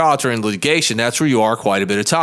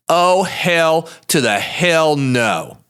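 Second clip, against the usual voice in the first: defiant refusal; 5 semitones higher, much slower than usual. Retold or imitated. Defiant retold reaction.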